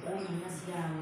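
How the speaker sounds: saying the name through a laugh; laughing disbelief. Retold or imitated. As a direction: chuckle at the odd name. Retold reaction, laughing. (tertawa geli menyebut nama)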